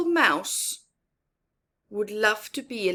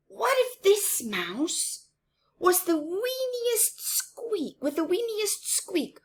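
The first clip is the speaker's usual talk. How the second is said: a timid mouse dreaming aloud; tiny mouse voice; 12 semitones higher than usual. Acted. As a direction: stretch out weeniest small and high.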